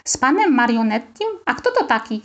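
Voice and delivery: puzzled rising question; surprised. Acted. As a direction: wonder aloud who this man is. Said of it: "zdziwił się Rafał". (zdziwione pytanie)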